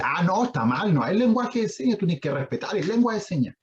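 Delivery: high-pitched mock reprimand; mock scolding. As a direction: playfully imitate someone telling another off. Acted scolding correction of another person.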